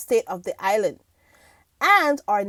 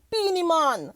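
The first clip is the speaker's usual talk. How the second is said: put-on a singer's name in a playful Jamaican accent; 4 semitones higher than usual. Host savouring the dancehall star's name, Jamaican accent. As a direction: lean into a Jamaican "mon" vowel on the last word. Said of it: "I'm not gonna do the Jamaican accent".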